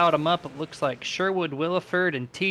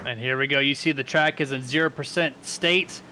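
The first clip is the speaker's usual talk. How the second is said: live play-by-play; 3 semitones higher than usual. Real, not acted. Announcer calls the green flag for fans, live play-by-play. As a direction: call the start with lift and drive.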